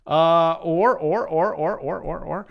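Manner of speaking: repeated barking "or, or, or" like a sea lion; sea lion barks. Real, not acted. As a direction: bark out each "or" like a sea lion. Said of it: "Now I sound like, uh, a, a, a, a sea lion".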